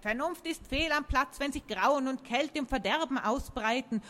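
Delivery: high, solemn oak prophecy; proclaiming talking tree. Acted. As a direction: proclaim it like an oracle.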